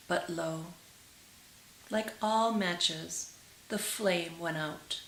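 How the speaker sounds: gentle, measured storytelling to listeners; tender read-aloud storytelling; storybook narration. A narrator's reading. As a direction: read it like a fairy tale by the fire. Reads fairy tale aloud.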